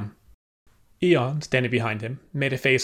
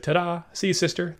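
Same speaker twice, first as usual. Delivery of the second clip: triumphant show-off; 6 semitones higher than usual. A narrator's reading. Showing off a caught olive.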